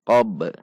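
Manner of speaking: "qab" dengan b akhir yang memantul; qalqalah memantul. Shown as a demonstration. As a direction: pantulkan huruf b di akhir "qab". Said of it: "dibaca memantul saat sukun". ("qab" ditutup pantulan qalqalah)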